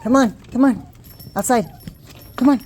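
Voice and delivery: high, loud sing-song coaxing; coaxing pet voice. Real, not acted. Owner coaxing puppies outside, high sing-song. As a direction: lure the puppies out the door.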